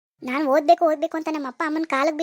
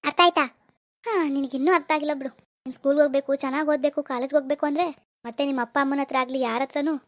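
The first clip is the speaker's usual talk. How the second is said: lightly voiced controlling admirer; threatening suitor.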